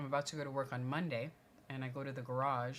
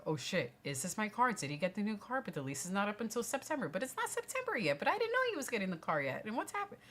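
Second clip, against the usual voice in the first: racing panic; 8 semitones higher, faster than usual. Retold or imitated. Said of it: "a million things are racing through my head".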